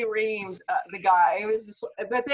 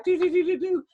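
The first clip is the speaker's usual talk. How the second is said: high, slow, hammed-up fake wailing; mock crying; 10 semitones higher, 5 dB louder than usual. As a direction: parody a whiny meltdown, overdone. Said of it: "that guy is like".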